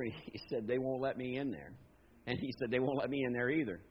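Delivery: low, soft parable telling; subdued, low-pitched storyteller; hushed storytelling. A narrator's reading. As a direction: draw them in with a quiet, low story. Quietly tells a church parable.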